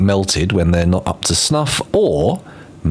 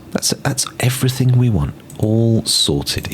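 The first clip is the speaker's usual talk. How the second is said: whispering; 3 semitones higher than usual. Real, not acted. Aside while building.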